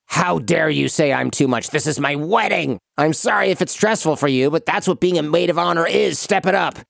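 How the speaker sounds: demanding bride mock rant; Bridezilla voice. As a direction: play the entitled diva bride. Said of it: "your Bridezilla voice is top shelf".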